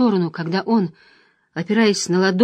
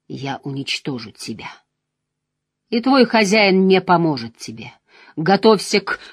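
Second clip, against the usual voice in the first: cold; 3 semitones lower than usual. Acted. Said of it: "голос его отдавал холодом и металлом".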